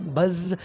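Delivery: बज़ with the z drawn out into a buzz; buzzing demo. Shown as a demonstration. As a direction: hold the final z of बज़ so it buzzes. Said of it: "जो बज़ का आप उसको pronounce भी करो".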